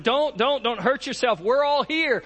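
high urgent cry to stop; urgent plea. Acted. Paul shouting to stop the jailer from killing himself, urgent. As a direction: stop him before he strikes.

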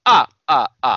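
mock vampire laugh, loud separate ahs; the Count. Podcaster quoting a Sesame Street vampire, loud staccato laugh. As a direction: punch out a cartoon vampire's "ah, ah". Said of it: "everybody fucking knows the Count".

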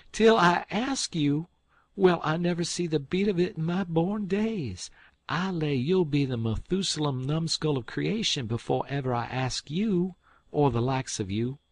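high, loud scornful outburst; scandalized. Acted. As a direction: scoff in disbelief. Aunt Sally scandalized.

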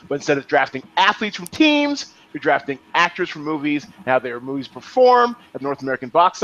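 upbeat scripted explainer with lifted list items; punchy promotional rundown; announcer rules read. Acted. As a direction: read out the rules like a show host.

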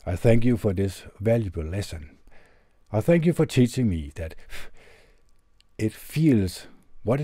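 lightly performed letter reading, earnest and measured; reading a heartfelt letter aloud. Acted.

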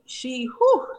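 trembling breath out, holding back tears; shaky sigh. Real, not acted. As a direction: let out a shaky whew, fighting tears. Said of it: "And I'm trying not to cry".

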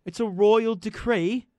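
mock royal herald. Co-host teasing Dan to read it like royalty. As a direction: drag it out like a pompous herald. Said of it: "you need your British accent".

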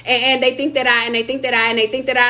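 repeating the words in a stuck loop; mock stutter. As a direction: imitate a caller who can't get it out. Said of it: "she was kinda stuttering".

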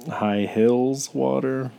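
slow mock Southern pronunciation; imitated Southern accent. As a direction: stretch it slowly with a Southern accent. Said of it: "You thought it was high heels?".

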